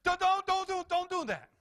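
high, loud, stammered frantic command; alarmed parent's warning. Acted. Parent seeing danger stops a child, emphatic imperative. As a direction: yelp it like a parent spotting danger. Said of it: "a parent sees the danger and they make an emphatic imperative".

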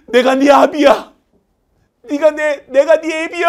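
high, loud, slow proclamation; father shouting. Acted. Father at reunion shouting to his son, high and loud. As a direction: announce fatherhood dramatically.

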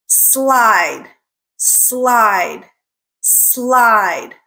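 "Slide" with a drawn-out S gliding into L; careful isolated "Slide" for a learner; S L blend. Shown as a demonstration. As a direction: model "Slide" alone, the opening SL clearly sounded. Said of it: "That's the S L blend".

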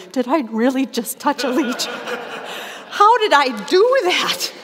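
a touch of shaky disbelief with a laugh; half-laughing, lightly voiced shudder. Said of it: "I sat there shuddering".

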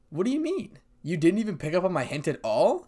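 high, pouty complaint; mildly indignant pout. A narrator's reading. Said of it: "said Kuroko with a pout".

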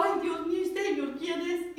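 high, drawn-out mock crying; tearful wail. Crying woman wary of a strange old man, tearful wail. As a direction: wail to God as if sobbing. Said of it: "Y yo más lloraba".

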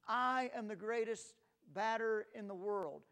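loud, proud boasting cry; boastful shout. Retold or imitated. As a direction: shout it like a cocky kid at bat. Boy shouts boast again.

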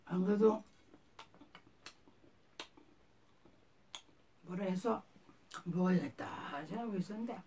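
speaking with food in mouth; words around a mouthful; talking while chewing. Real, not acted. Seen 0: Food put in mouth at -1; lips pursed, jaw working while talking.

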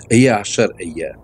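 a slow Hebrew demo of "Eje Asher Eje"; Hebrew pronunciation. Shown as a demonstration. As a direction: say "Eje Asher Eje" slowly, as careful Hebrew syllables. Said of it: "jak to brzmi, to brzmi".

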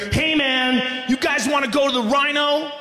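mock eager party-friend voice; eager buddy. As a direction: pitch it like a friend who's wide awake. Buddy eagerly suggesting the strip club.

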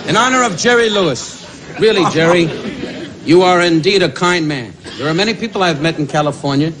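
hammed-up heartfelt tribute voice; mock sincere tribute. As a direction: lay the false heartfelt praise on thick.

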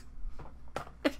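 soft breathy laugh without voice. Real, not acted. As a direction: laugh softly to yourself. Laughs after own shocked squeal.

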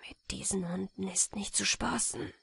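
hushed whisper. A narrator's reading. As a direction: whisper it to the others. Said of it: "flüsterte der Jäger".

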